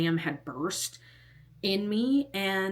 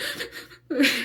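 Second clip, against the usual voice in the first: higher-pitched wordless imitation of breaking down; mock sob burst; 8 semitones higher than usual. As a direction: act out bursting into tears. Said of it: "I was like".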